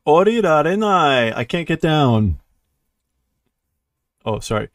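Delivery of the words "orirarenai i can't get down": high, loud acted whine; mock-tearful, wavy wailing; crying. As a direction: wail it like a stranded crybaby. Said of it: "So he's still crying".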